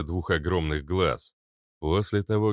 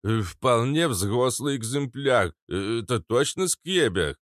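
put-on old man voice; 4 semitones higher than usual. Old man papasha Katz speaks.

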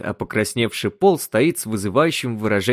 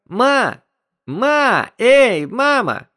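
loud, higher, drawn-out calling of mom; 5 dB louder, much slower than usual. Acted. Son calling his daydreaming mother, loud drawn-out call. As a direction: call her across the house, stretching the last call slowly. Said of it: "позвал сын Элен".

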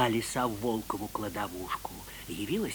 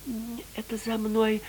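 sly fox voice; 9 semitones higher, 4 dB louder than usual. Acted. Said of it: "отвечает Лиса".

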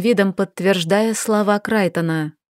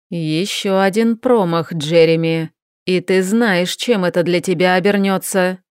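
menacing. Acted. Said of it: "процедил маг угрожающе".

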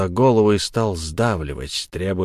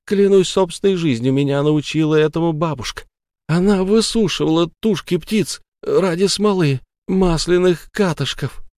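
higher, urgent pleading; frightened oath; 8 semitones higher than usual. Acted. Sara, terrified, explains her grandmother's craft. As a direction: swear on your life.

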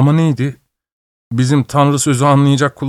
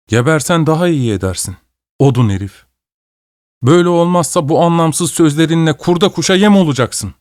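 angry scolding; 6 semitones higher than usual. Acted. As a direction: tell him off, building in anger. Semka scolds Mişka.

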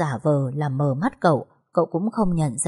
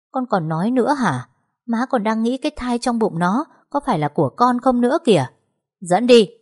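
higher, louder, cutting the son off; stern angry order; 6 semitones higher, 4 dB louder than usual. Acted. Mother silences her son and orders the wife led away, higher and loud. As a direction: end the argument with a loud command.

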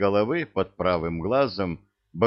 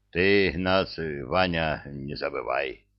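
put-on drunken voice; 5 semitones lower, slower than usual. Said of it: "Бывалый пьяно мотнул головой".

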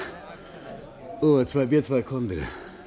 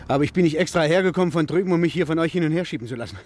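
upset outburst; 8 semitones higher than usual. Acted. Father confronting the detective about his missing daughter, upset and raised. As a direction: push back hard, voice rising.

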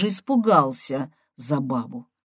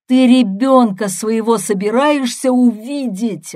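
loud, high bellow; furious yelling; 6 semitones higher, 7 dB louder than usual. A narrator's reading. Brother berating sister about her child, yelling. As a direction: hurl the accusation at full volume. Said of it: "орал я".

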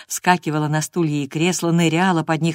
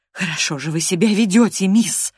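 sternly scolding, hiding a smile, higher; mock sternness; 4 semitones higher, 3 dB louder than usual. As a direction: put on a stern nanny tone. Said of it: "напускной суровостью".

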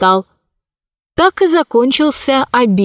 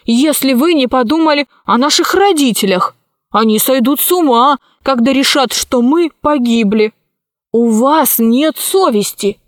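a hint of a protesting boy, slightly raised pitch; lightly voiced indignant Pashka; 3 semitones higher than usual. Pashka pleads for their parents, lightly voiced indignation. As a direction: reproach them earnestly, without shouting.

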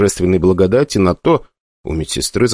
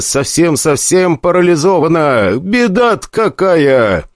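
mock pity; 9 semitones higher, slower than usual. A narrator's reading. Mock lament, high slow.

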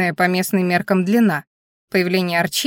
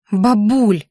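reproachful; 4 dB louder than usual. Acted. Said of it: "произнесла я осуждающе".

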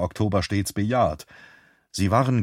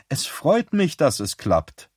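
Beth's voice; 5 semitones higher than usual. Acted. Beth voiced on the phone.

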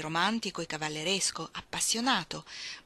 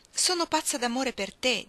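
higher, impassioned confession; passionate declaration; 6 semitones higher, 3 dB louder than usual. A narrator's reading. Woman confessing mad love to Shell, passionate and raised.

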